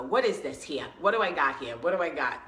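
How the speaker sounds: mock squinting old lady asking what it is; lightly voiced grandma peering at money; imitating grandmother. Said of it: "hold it up in front of my face and go".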